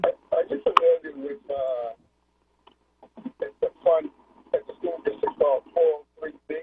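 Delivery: choppy phone line, words dropping out; bad connection. Real, not acted. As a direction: voice breaking up on a weak call. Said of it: "I can hardly hear you, Prince. You sound like you're breaking up".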